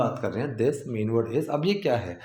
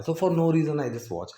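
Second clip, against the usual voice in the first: slow model sentence; 2 semitones higher, much slower than usual. Shown as a demonstration. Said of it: "model sentence".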